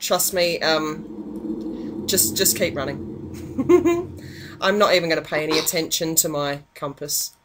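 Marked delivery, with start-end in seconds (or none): 3.0-4.6 quick high giggle; short laugh. Real, not acted. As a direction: giggle at yourself. Laughing at own strategy.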